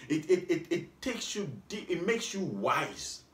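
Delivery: chuckling through the words; laughing. Real, not acted. Preacher chuckling while praising the depth of the law. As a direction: laugh as you say it.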